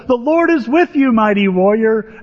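high, grand announcing voice; angel's proclamation. Acted. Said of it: "And the angel says".

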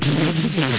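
mouth-made noise of a car skidding across; imitated car noise. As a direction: imitate the car ploughing over posts. Imitates car going across posts.

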